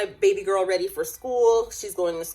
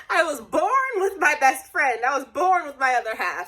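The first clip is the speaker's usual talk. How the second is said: welling up; 8 semitones higher than usual. Real, not acted. Choked up about twin sister.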